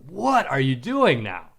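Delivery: friendly excited question; enthusiastic. Retold or imitated. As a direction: sound thrilled to hear from them. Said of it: "you can see enthusiasm in that".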